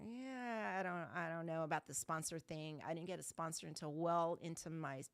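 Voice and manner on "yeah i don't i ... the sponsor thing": retold reluctance. Newcomer balking at getting a sponsor, mildly reluctant. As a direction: imitate yourself hedging. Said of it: "you know, I was like".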